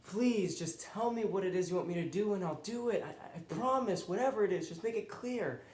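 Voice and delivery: a mild retold scream of a desperate prayer; pleading cry to God. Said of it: "like, screaming".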